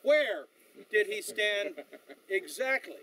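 imitated West Texas accent, WHERE hit hard, broken by pauses; Sam Elliott. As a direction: insist in a West Texan accent, pausing between phrases. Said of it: "in that West Texas accent".

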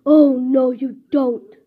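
staged loud interruption; confronting the thief. Acted. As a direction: burst in to stop the thief. Snack owner intervenes against thief.

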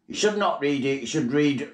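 lightly voiced Queen with a put-on royal tone; mock the royal Christmas broadcast; parody Queen's speech. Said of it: "We interrupt this programme for the Christmas broadcast".

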